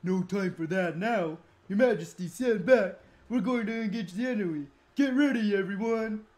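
loud battle command; commander's call. Acted. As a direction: order the troops to ready.

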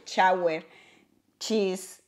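"shower" said as "chower", same as "cheese"; "shower" and "cheese" with one ch sound. Shown as a demonstration. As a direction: start both "shower" and "cheese" with ch. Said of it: "yo digo lo mismo".

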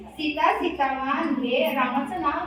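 slow, measured recitation; demonstrated verse. Shown as a demonstration. Showing guests what to say, slow model recitation. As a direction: show them how to recite it. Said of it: "असं म्हणा".

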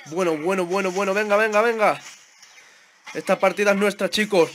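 rally the team as victory nears; excited rallying. Real, not acted. Gamer telling the team the match is theirs, excited.

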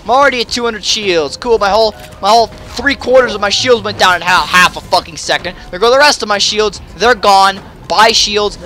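high, loud running complaint; agitated frustration. Real, not acted. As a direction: rattle off the losses in exasperation. Shields vanish during fight.

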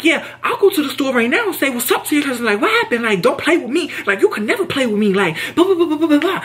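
high laughing taunt; laughing clapback at a coworker; retold clapback. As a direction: taunt her, half laughing.

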